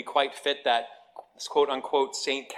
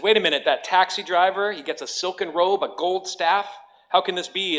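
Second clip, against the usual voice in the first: indignant minister; 4 semitones higher than usual. Acted.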